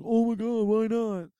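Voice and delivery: high-pitched imitation of an excited kid; mock kid's amazed outcry. Host quoting every kid watching the show, excited kid. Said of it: "every kid would be like".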